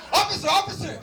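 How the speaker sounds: high, whiny tattling to a cop; mock whiny complaint. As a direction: play the petty victim calling the officer.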